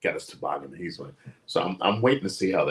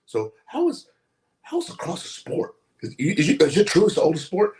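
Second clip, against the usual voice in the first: mock Joe; 10 semitones higher, 5 dB louder than usual. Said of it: "Joe's like".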